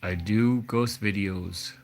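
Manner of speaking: slow, measured lilt, lightly imitated; a hint of a slow ghost-video narrator; Dylan from Chills. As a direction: attempt a YouTube narrator's odd, drawn-out delivery. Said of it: "see if I could reproduce this".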